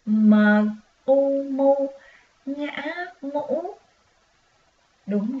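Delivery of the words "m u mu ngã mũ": high chanted U, mu, ngã, mũ; lilting spelling drill; sing-song spelling. Shown as a demonstration. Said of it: "Một lần nữa nè".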